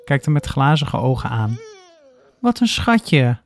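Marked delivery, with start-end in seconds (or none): 2.4-3.4 high, slow delighted exclaim; a high, slow cry of delight at a puppy. A narrator's reading. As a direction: gush over the puppy, drawing it out. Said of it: "roept ze".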